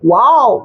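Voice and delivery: ওয়াও said as "wow", rising then falling; teacher's "wow" glide on ওয়াও; pronunciation demo. Shown as a demonstration. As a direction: model ওয়াও as one gliding "wow". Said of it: "আর উচ্চারণটা কেমন হবে?".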